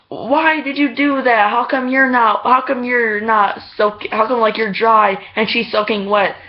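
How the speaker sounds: lightly hammed-up accusing questions; mock scolding mom. Girl's mom demands an explanation, mock indignant scolding. Retold angry mom confronting her.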